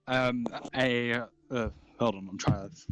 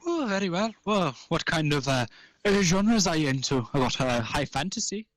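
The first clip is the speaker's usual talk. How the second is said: gnome shopkeeper; 4 semitones higher than usual. Acted.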